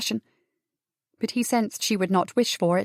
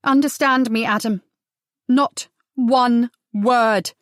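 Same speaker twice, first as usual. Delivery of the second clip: louder, slow and deliberate on not one word; fierce warning; 4 dB louder, slower than usual. Acted. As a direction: lay down the law, each word weighted. Seraphina fierce, forbidding Adam.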